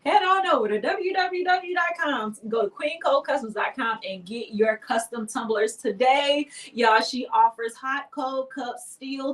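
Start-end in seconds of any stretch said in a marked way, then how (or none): 0.1-6.5 upbeat announcer ad read; commercial voice. Pretend. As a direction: sell it like a radio spot. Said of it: "Let me put on my commercial voice".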